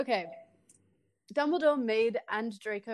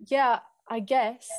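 lying; 6 dB louder, slower than usual. Acted. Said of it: "I lied".

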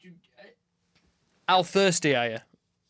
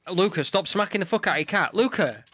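raised, higher scolding voice; sharp telling-off across the room; scolding call; 5 semitones higher, 3 dB louder than usual. Real, not acted. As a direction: call out to tell someone off. Calling out to scold Luca.

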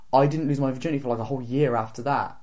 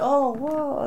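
mock confused girlfriend; 11 semitones higher than usual. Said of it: "she was like".

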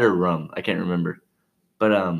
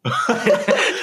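imitated gasp; 11 semitones higher than usual. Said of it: "she went".

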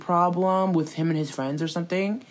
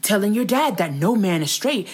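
mock accusing Tati; 4 semitones higher, 4 dB louder than usual. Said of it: "she was like".

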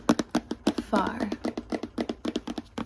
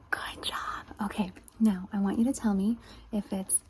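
soft, softer whispered praise; ASMR whisper; 4 dB quieter than usual. Acted. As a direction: whisper praise close and gentle.

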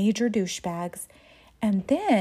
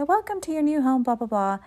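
a lightly voiced, higher goofy groom; silly voice; 4 semitones higher than usual. Husband carrying his bride into their new home, in a mildly silly voice. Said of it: "doing this silly voice".

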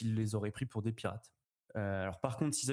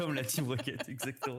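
laughing; 2 semitones higher than usual. Real, not acted. Laughing at the reference.

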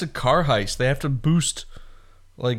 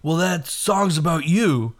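Nick Cage impression; 4 semitones higher, slower than usual. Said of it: "That's my Nick Cage impression".

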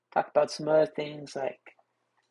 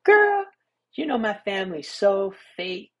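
put-on gossipy girl voice; 5 semitones higher than usual. Mimicking gossiping girls.

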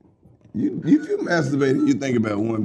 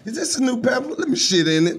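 put-on high squeaky baby voice, pushed up high; baby's inner voice; 10 semitones higher than usual. Voicing the baby during a diaper change, high and cheeky. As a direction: play the baby, cheeky and pleased.

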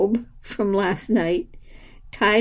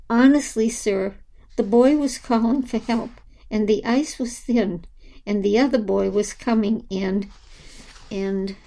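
babbling. Acted. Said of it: "her babbling".

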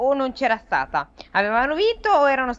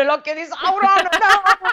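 mock ominous; 11 semitones higher, 5 dB louder, slower than usual.

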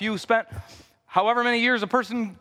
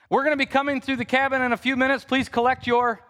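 flight attendant; 2 semitones higher than usual. Shown as a demonstration. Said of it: "you guys could all be flight attendants".

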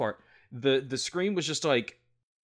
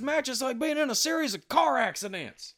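hype trailer voice; 5 semitones higher than usual. Pretend. Reciting a hype video voiceover.

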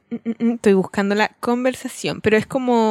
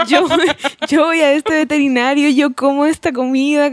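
dog's voice; 5 semitones higher, 5 dB louder than usual. Retold or imitated. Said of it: "como si fueran ellos".

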